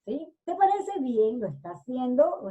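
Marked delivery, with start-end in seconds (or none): 0.5-1.4 "¿Te parece bien?" pitched high as a question; question tune. Shown as a demonstration. Teacher shows signos de interrogación, asking "¿Te parece bien?" high. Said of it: "es una pregunta".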